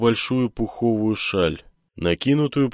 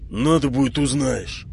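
barked; 6 semitones higher than usual. A narrator's reading. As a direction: snap it over the shoulder. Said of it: "рявкнул".

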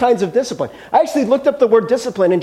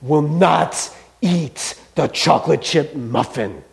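dog's voice; 4 semitones lower, much slower than usual. Retold or imitated. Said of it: "the dog is like".

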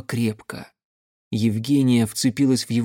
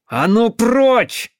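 loud, high, drawn-out angry order; near growl; 10 semitones higher, 6 dB louder, much slower than usual. A narrator's reading. Armed woman shoves the man away, almost growling. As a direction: drive him off with a furious cry. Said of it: "почти зарычала она".

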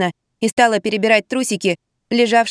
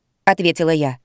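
ordinary delivery, nothing marked

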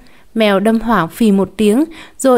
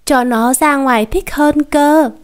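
put-on urging child; 5 semitones higher, slower than usual. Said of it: "được thể anh giục".

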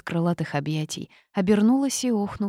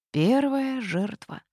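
slow, grim pronouncement; grim slow verdict; gloomy; 7 semitones higher, slower than usual. A narrator's reading. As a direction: announce it darkly, slowly. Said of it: "мрачно произнёс".

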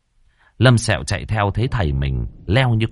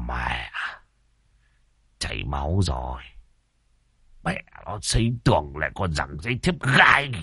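pained grumble; 6 semitones lower, 6 dB quieter than usual. A narrator's reading. Master sees his bloody nose.

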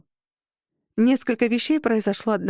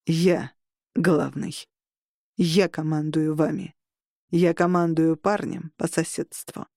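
icy voice; 3 semitones lower than usual. Acted. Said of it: "ледяным голосом произнёс".

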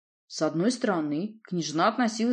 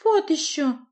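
high, loud pouting refusal; girl refusing to go home; defiant scoff; 11 semitones higher, 6 dB louder, slower than usual. Acted. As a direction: brush him off like a teen. Nadya's voice, high.

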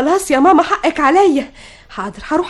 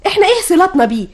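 indignant protest; 3 semitones higher than usual. Acted. Daughter objecting to mother about the unwanted visitor, indignant.

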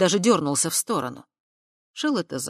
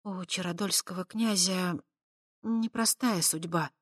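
slow; 4 dB quieter than usual. A narrator's reading. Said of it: "медленно произнесла".

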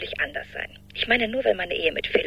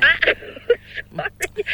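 laughing; 11 semitones higher, 4 dB louder, much slower than usual. Acted. Laughs at cat mix-up.

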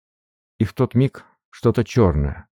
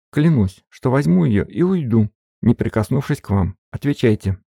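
higher, urgent, pressing threat; tense threat; 6 semitones higher than usual. A narrator's reading. Katerina at gunpoint presses Antsiferov for the folder. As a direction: demand it fast at gunpoint.

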